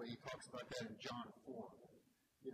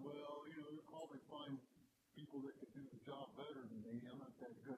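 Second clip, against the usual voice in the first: mush mouth. Retold or imitated. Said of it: "they're all mush mouth".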